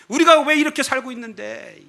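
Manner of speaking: high exasperated complaint; acted marital quarrel. (부부싸움하듯 높게 따지기)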